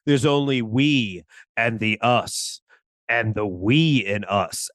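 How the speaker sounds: solemn guru pronouncement. Acted. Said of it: "he's like".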